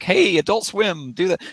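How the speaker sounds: acted calling out. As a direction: call out to the network, pitched well up. Acted plea to a TV network.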